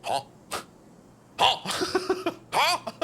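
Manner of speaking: confused huh. Retold or imitated. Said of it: "they'll just be like".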